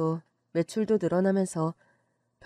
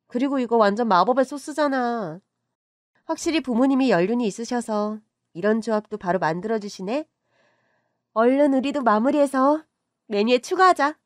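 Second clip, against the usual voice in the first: eager excitement; 4 semitones higher, 4 dB louder than usual. Acted. Eager to add new menu.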